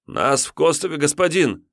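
высоко, торопливо; ответить с поклоном; испуганный отрок. Acted. Отрок отвечает тиуну. (отрок испуганно отвечает тиуну)

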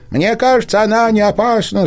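a lightly voiced eager fox cub. A narrator's reading. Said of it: "сказал лисёнок".

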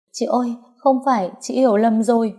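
high, pleading protest. Acted.

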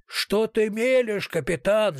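high-pitched, slow angry yell; bandit yelling. A narrator's reading. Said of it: "заорал бандит". (высокий злой крик бандита)

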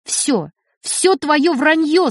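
desperately rude but quiet. Acted. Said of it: "с отчаянной грубостью, но тихо".

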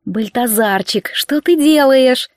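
coaxing. Acted. Ласково обращается к еноту.

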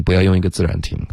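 normal talking voice

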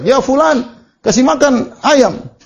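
high mock call, slow on the last words; mother calling out. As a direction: call the son like a mother calling across the house. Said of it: "ibunya berteriak". (panggilan ibu yang tinggi dan pelan)

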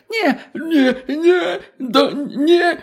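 frantic high-pitched no-no-no; panicked pleading. Acted. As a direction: beg in terror, voice cracking into a laugh. Terrified old professor backing away.

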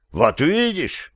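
high, slow, pleased exclamation; gladdened. A narrator's reading. Zhaner hears he is vindicated, gladdened. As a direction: seize on it with relief, drawn out. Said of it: "обрадовался Жанер".

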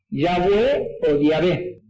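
slow Yahweh with a w, then Yahvé with a v; both pronunciations. Shown as a demonstration. Teacher sets the two pronunciations side by side, slowly. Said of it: "van a escuchar estas dos cosas".

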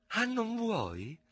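high, slow, drawn-out menace; hissed challenge. A narrator's reading. Ferraud taunts the officer who won't fight, hissing. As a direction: hiss it as a taunting question. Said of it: "sibilò il Guascone".

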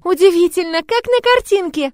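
put-on very high, loud child voice; marvel, stretching the words in wonder; slow, high-pitched girlish amazement; awed little girl. A narrator's reading. Child marvels, hands on cheeks.

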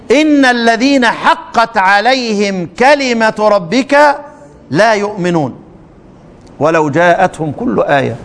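slow, measured recitation; Quran recitation. Shown as a demonstration. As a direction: draw the verse out reverently. Recites the second Yunus verse.

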